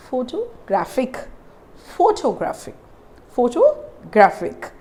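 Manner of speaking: "photographic" with PHO stressed; careful teacher's model "photographic", weight on PHO; stress on first syllable. Shown as a demonstration. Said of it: "the same kind of a pronunciation".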